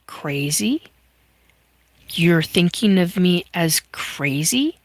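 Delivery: half-whispered hurt question; a breathy, offended whisper; hushed retort. Retold or imitated. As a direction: say it under your breath, stung. Queenie reacting to a heard thought.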